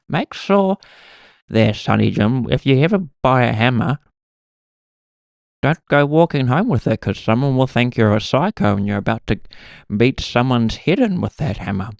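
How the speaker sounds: lightly voiced old granny; a hint of elderly scolding, pitch lifting in places; grandmother's old voice. Grandmother warning Sonny Jim about hammers, old person voice. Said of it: "she sounds a little bit like that now".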